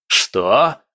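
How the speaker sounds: loud outraged cry; yelled shock. Acted. Prince yells on hearing of the mutiny. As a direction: shout in disbelief. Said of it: "заорал Бобшильд".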